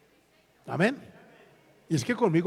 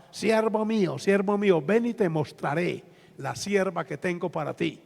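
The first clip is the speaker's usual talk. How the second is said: lightly voiced solemn oracle; a hint of chanting prophetess; imitated prophetess. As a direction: intone it like a mock prophecy, slowing at the end. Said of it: "Y había una profeta".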